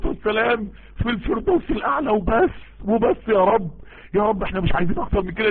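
fervent supplication, rising toward a shout; pleading with God, building in fervour; preacher leads the congregation in prayer; heartfelt prayer. Acted.

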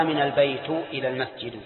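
wrong-case demo, "al-baytu ila l-masjidu"; incorrect damma endings. Shown as a demonstration. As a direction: end البيت and المسجد in "u". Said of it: "ولا يجوز أن تقول".

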